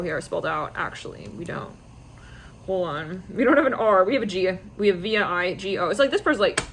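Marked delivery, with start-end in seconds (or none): none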